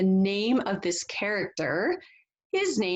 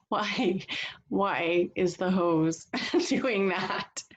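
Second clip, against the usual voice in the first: laughing; slower than usual. Real, not acted. Laughs at the silly picture.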